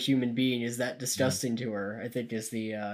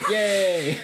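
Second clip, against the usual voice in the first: cheer; 7 semitones higher, 7 dB louder than usual. Real, not acted. Cheering the campaign slogan.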